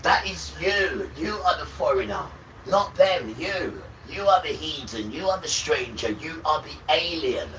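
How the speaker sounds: loud, high-pitched accusing rant; shouting. Real, not acted. Ranting at white people, shouting accusations. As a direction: hurl each accusation at them.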